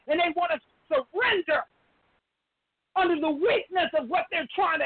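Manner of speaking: real tears catching in the voice; pushing the words out through crying; tearful. Real, not acted. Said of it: "That's why I'm feeling emotional".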